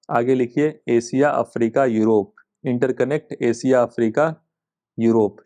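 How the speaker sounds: measured dictation, word groups set apart; dictating notes. Shown as a demonstration. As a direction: dictate in short chunks, pausing for writers. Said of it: "तो एक line में बस ऐसे लिखिए".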